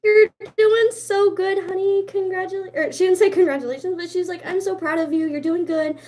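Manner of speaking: high, soothing mock nurse voice; imitating a kind lady reassuring a nervous client; quoting the sweet piercer. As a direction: coo it like a gentle piercer. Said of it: "She was like".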